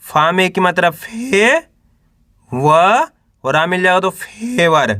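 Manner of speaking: drawn-out letters with pauses between; teacher's spelling drill, held rising syllables; syllable-by-syllable sounding out. Shown as a demonstration. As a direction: sound out each letter for beginners to repeat. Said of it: "तो कैसे पढ़ेंगे".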